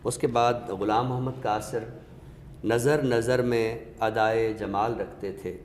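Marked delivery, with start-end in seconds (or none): 2.6-5.5 measured ghazal recital, a touch of weight. Acted. Recites Ghulam Muhammad Qasir couplet.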